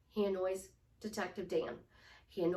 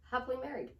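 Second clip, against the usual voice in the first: confident; 2 semitones higher, much faster than usual. Shown as a demonstration. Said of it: "Chin up, square your shoulders".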